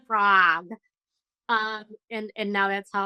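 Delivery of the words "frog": American accent. Shown as a demonstration. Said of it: "practiced my American accent".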